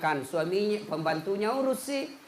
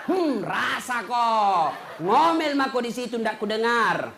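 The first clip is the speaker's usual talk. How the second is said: slow, louder gloating; smug husband; 4 dB louder, slower than usual. Retold or imitated. Husband gloating over the well, slow and louder. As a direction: savour it, pleased with yourself.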